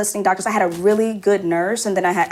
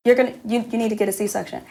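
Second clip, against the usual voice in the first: softer, high brush-off; dismissive mock; 3 semitones higher, 5 dB quieter than usual. A mother mimics doctors brushing her off, softer and dismissive.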